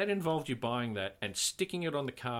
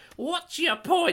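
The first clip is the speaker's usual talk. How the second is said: terrible, very high, loud put-on voice; 8 dB louder than usual. Quoting the other speaker's question back: bad high-pitched imitation of other speaker. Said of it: "terrible at imitating your voice".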